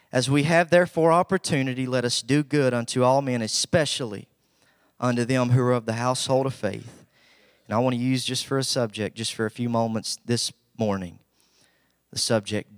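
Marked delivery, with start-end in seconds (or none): 0.1-7.0 measured pulpit reading, phrase by phrase; raised preacher's reading voice, slowing at the close; scripture reading. Acted. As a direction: read the verse out solemnly with long pauses. Reads scripture aloud.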